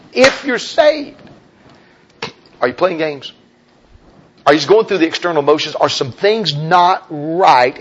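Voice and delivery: preaching challenge. Acted.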